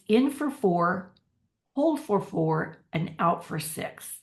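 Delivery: slow, even count for each breath step; slow counted breathing cue. Shown as a demonstration. Coach slowly counting a parent through breaths. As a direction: pace the listener through in, hold, out. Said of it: "the breath pattern that I love".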